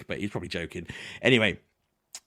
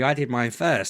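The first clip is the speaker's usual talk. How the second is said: usual speaking voice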